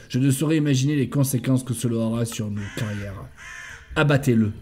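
measured, evenly intoned briefing; military report reading. Acted. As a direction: read out a mission report item by item. Reads in-game note aloud.

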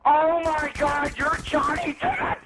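mock starstruck.

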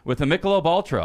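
loud, very high announcer shout; big high-pitched hype yell; hyped ad opener. Pretend. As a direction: holler the party kickoff. Restarts ad opening with new words.

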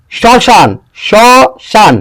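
শ্মশান pronounced for the class with a nasal vowel; nasal demo. Shown as a demonstration. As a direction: model শ্মশান as "shoshan" with a nasal tinge. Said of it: "নাসিক্য স্বরে হয়".

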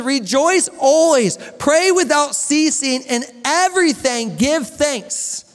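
slow scripture reading. Shown as a demonstration. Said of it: "Verse sixteen says".

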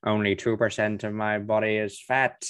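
lightly voiced menacing crime boss; a hint of a smug villain boast; Kingpin impression. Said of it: "That's my Kingpin impression from the Spider-Man animated series".

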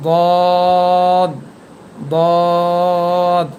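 দদ said heavy and loud, a thick emphatic d; thick Arabic letter. Shown as a demonstration. Teacher showing the thick দদ. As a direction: make দদ full and heavy. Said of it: "দদ হরফটি একটু মোটা হবে".

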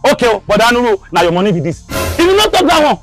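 steady threat building to shouting; calm turning angry. Acted. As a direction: start calm, then lose temper. Creditor demanding his money.

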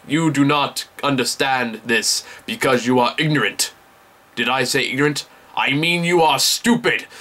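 lightly imitated Russian teacher, measured delivery; Russian accent. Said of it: "he talks with a thick Russian accent".

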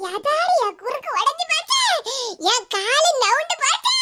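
theatrical mock lament; fake wailing. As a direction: pretend to sob over a broken back. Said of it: "அஞ்சு ரூபாய்க்கு நடிக்க சொன்னா ஐம்பது ரூபாய்க்கு நடிப்பா".

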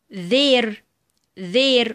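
"their" opening on buzzing th; voiced TH. Shown as a demonstration. Teacher gives examples of ذ, "their" with voiced th. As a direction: model "their" twice with voiced th. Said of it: "وهننطقها ذا".

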